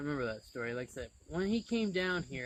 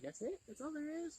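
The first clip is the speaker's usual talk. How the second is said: incredulous; 13 semitones higher, 7 dB quieter than usual. Retold or imitated. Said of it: "And I was like".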